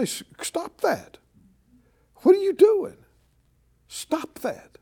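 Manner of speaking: stern rebuke. Shown as a demonstration. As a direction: demo of a firm reprimand to a crier, sharp on the question. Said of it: "You need to say".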